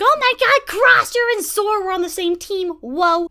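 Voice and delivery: high, loud starstruck gushing; super excited. Retold or imitated. Fan learning her idol joined the team, gushing. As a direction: squeal at your hero joining the team. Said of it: "I got super excited".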